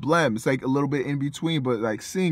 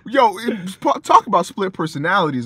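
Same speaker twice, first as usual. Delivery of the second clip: a loud, higher exasperated shout; loud mocking rant; 7 semitones higher, 6 dB louder than usual. Real, not acted. Ranting to a friend about a rapper's fake accents, loud exasperated shout. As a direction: shout it out in disbelief.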